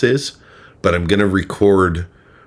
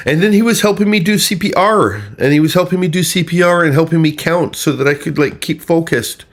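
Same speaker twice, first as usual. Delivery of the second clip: high, loud boastful mimicry; mocking the caller's much higher bragging; 10 semitones higher, 4 dB louder than usual. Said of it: "she later brags".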